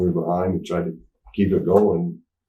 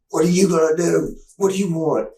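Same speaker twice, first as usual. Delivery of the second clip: high, loud retold challenge; pitched-up belligerent challenge; mock confrontation; 11 semitones higher, 4 dB louder than usual. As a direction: square up to a guard, acted out. Acted confrontation with security guard.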